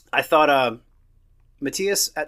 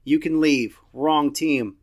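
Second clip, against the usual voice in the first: louder, playful mock anger; dad teasing daughter for cheering the rival, louder mock scolding; 5 dB louder than usual. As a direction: pretend to throw her out of the room. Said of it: "And I was like".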